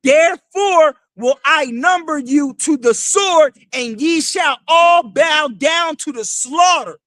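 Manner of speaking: slow, booming preacher's reading of scripture; scripture declaimed. Acted. Street preacher reads prophecy to the crowd, slow booming declamation. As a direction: proclaim each word like the prophet himself.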